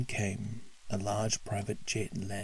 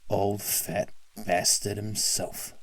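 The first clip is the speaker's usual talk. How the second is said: slow sneering villain; drawn-out gloating greeting; mocking taunt. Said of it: "Teddy said".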